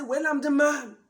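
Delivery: lightly voiced self-important man, loud at first; a touch of a husband laying down the law; domineering husband. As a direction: open loud and assertive, then ease off. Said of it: "the type that will always say".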